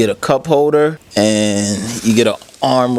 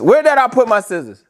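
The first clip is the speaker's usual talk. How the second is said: tag; 12 semitones higher, 3 dB louder than usual. Real, not acted. Frustrated searching.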